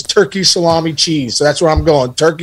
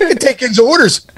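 Pittsburgh waitress; 7 semitones higher than usual. Retold or imitated. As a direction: do the diner waitress in thick Pittsburgh. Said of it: "the lady's like".

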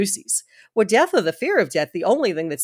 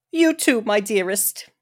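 yearning pity. Acted. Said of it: "with infinite yearning of pity in her voice".

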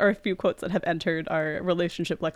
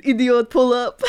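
put-on Clouseau's French accent, pitched up; fake French accent; 4 semitones higher, 5 dB louder than usual. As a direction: bark it in a hammy French accent. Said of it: "incredible fake French accent".

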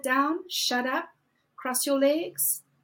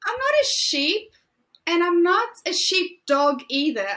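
defiant; 4 semitones higher, 4 dB louder than usual. Real, not acted. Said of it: "rejecting follow".

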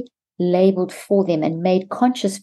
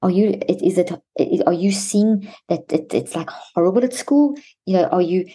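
gentle sympathetic questioning; 2 semitones higher than usual. Shown as a demonstration. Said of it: "You could say something like".

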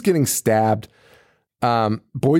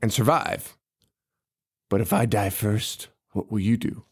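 lightly voiced creepy Wendigo; 7 semitones lower, 5 dB quieter than usual. Podcaster voicing the Wendigo to his captive, low and sinister. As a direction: croon it like a hungry monster. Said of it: "is like".

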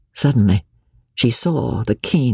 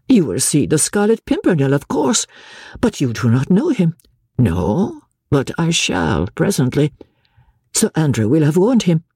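a hint of a tired lady, higher; lightly voiced Lady Blakeney; 4 semitones higher than usual. Marguerite voiced by narrator.

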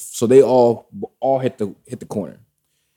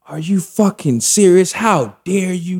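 high, loud, drawn-out mock outrage; imitated anger; 9 semitones higher, 4 dB louder, slower than usual. Ex spots someone under the covers, mock outrage. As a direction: stretch it out as an imitation of a furious ex. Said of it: "goes to anger".

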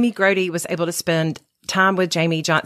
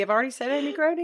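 laughing cry; 4 semitones higher, 5 dB quieter, much faster than usual. Real, not acted. Exasperated at flubbing again.

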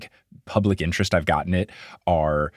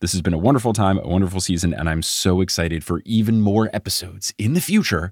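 steady podcast sign-off read; host's closing credits read; outro read. Acted. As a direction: thank listeners and run the credits.

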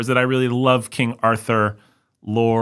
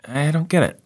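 I'm like; 10 semitones higher than usual. Retold or imitated. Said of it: "and I'm just like".

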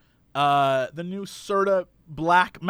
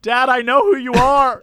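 put-on annoyed kid; 3 semitones higher, 6 dB louder than usual. Kid answering Joe Buck.

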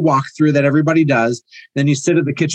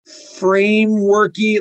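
drawn out; 5 semitones higher, much slower than usual. Real, not acted. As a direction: stretch the word slowly, half-mocking. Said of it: "that word consultation still feels".

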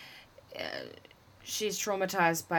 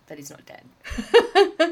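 high, loud, slow laughing punchline; 9 semitones higher, 11 dB louder, much slower than usual. Real, not acted. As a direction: laugh through the words.

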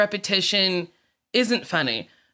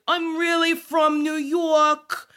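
put-on pop-star accent; 8 semitones higher, slower than usual. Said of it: "sometimes there's an accent".

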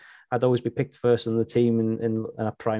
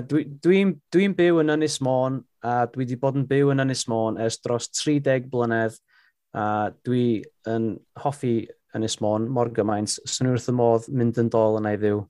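speaking Welsh on request. Shown as a demonstration. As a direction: caught off guard, answer in Welsh. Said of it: "You wanna say a little something in, in Welsh for us?".

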